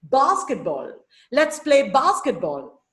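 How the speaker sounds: BASketball, weight up front then falling; first-syllable stress. Shown as a demonstration. Teacher gives the class a dactyl example, stressing bas in basketball. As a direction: lean on bas each time in basketball. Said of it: "First syllable is stressed".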